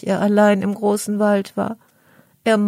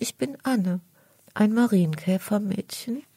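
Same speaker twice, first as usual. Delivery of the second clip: timid; 3 semitones higher than usual. Acted. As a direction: shrink back while saying who you are. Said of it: "sagt das Käfermädchen ängstlich".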